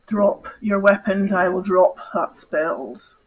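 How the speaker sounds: slow, hissing posh villain; a lightly voiced posh creature, drawn out; posh sibilant voice. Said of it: "in a posh voice".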